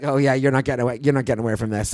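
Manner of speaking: low, dropping sneer of a predator; a lightly voiced menacing attacker; menacing taunt.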